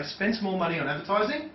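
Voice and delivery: advertising rises at the end; upward tonality. Shown as a demonstration. Trainer demoing the questioning rise on advertising. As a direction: let advertising lift like a question. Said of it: "That upward tonality".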